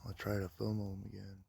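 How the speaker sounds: hushed whisper. Real, not acted. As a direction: whisper so the foxes stay. Hushed so the foxes return.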